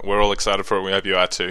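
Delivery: understated, level-voiced enthusiasm; not too excited. Real, not acted. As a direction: claim excitement without sounding it. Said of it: "Don't, don't sound too excited".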